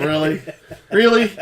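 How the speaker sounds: rising incredulous really; skeptical side eye. Acted. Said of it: "gives you the side eye of".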